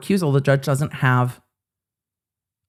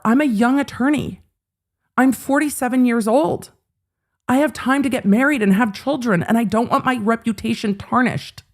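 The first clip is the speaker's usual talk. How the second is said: higher, whiny quote voice; mocking whine; 5 semitones higher than usual. Mocking Ron pleading his youth to the judge, whiny. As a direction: read it as a pitiful whine.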